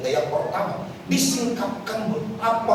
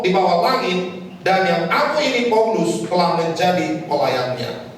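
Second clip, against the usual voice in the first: scripture reading; 3 semitones higher than usual. Acted. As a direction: read each verse weightily to the church. Reads scripture aloud in church.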